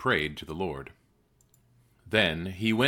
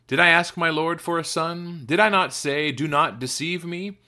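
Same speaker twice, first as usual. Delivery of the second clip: raised, pleading questions with mild reproach; 7 semitones higher, 3 dB louder than usual. A narrator's reading. Mother confronts the man of God about her son, reproachful. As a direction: read as a distressed mother's higher-pitched challenge.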